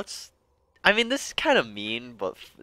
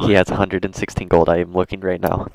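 louder, lower, emphatic rebuttal; loud insistence; 5 semitones lower, 7 dB louder than usual. Real, not acted. Player contradicting another player about the gold, loud and insistent. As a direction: dig in and insist, loudly.

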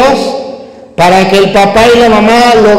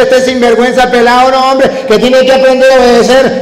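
scolding father; 4 semitones higher, faster than usual. Retold or imitated. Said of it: "decía".

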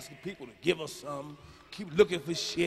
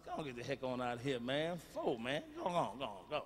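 laughing dismissal; 7 semitones lower, 8 dB quieter than usual. Acted.

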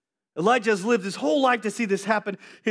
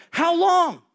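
challenging the people; 5 semitones higher than usual. Retold or imitated. Elijah challenging the wavering people, raised. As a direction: press the crowd, raised voice. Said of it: "He's like".

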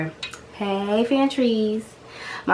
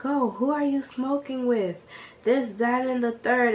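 prying mom voice; 6 semitones higher than usual. Retold or imitated. Mom interrogating.

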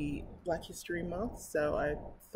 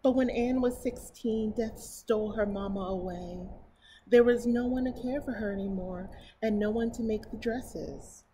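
slightly higher, clearer storybook reading; story narration; 3 semitones higher, 6 dB louder than usual. Acted. Reading a picture book to her viewers, storybook narration. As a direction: read it aloud to children.

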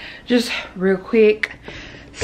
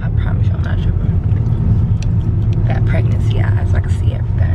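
whispering; 3 dB louder than usual. Real, not acted. Insisting about dust, hushed.

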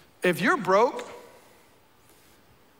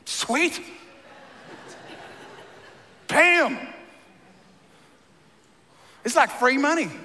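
mock excitement; 6 semitones higher than usual.

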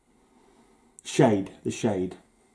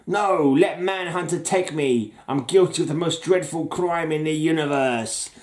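slightly hammed-up, higher comic-book despair; mock anguished confession; 3 semitones higher than usual. Green Lantern begging to be taken, mock anguished confession. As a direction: plead guilty with mild melodrama. Acts out captive hero's cover line.

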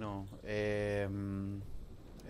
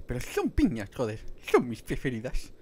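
Ice Age sloth impression; 7 dB louder than usual. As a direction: belt out the Ice Age sloth's pineapple line. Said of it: "sé imitar al de Ice Age".

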